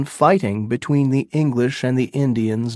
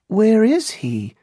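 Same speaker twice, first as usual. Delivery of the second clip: put-on higher anxious young woman; lightly voiced girl; 8 semitones higher than usual. A narrator's reading. Pocahontas asks Englishmen, higher and anxious. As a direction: ask urgently.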